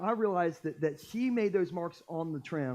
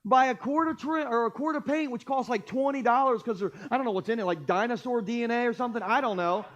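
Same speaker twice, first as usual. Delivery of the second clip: retold rant; 4 semitones higher than usual. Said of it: "And I'm losing it".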